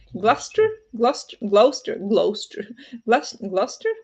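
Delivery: Gloucester sounded out as glos-ter, rising like a question; trying Gloucester letter by letter; mispronounced Gloucester. Shown as a demonstration. Learner guessing Gloucester aloud on a language stream, unsure. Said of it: "That's what I would say".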